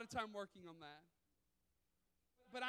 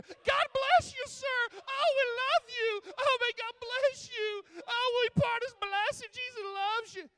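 gushing church mother; 12 semitones higher, 12 dB louder than usual. Retold or imitated. Mother suddenly blessing the homeless man, hammed-up gushing. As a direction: pour out hammed-up sugary blessings.

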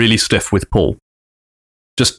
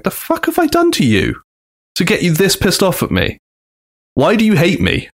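much higher, wounded mock whine; baffled giant; 7 semitones higher than usual. Big Show to Austin, higher mock hurt whine. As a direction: play the hurt, bewildered giant. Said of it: "Big Show stood there going".

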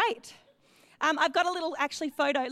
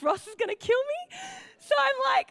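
nervous giggle; 11 semitones higher than usual. Retold or imitated. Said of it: "I had a little nervous giggle".

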